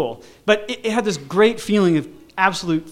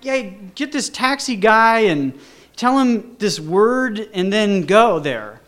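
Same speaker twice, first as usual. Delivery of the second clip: higher, slow, deliberate directions; instructing caller; 5 semitones higher, 4 dB louder, slower than usual. Retold or imitated. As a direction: spell out the plan slowly and firmly. Caller gives him instructions.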